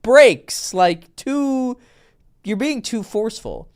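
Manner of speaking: loud, high "Bro" then easing off; mock alarmed friend; exasperated warning. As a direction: yell at a friend to hit the brakes. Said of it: "And I'm like".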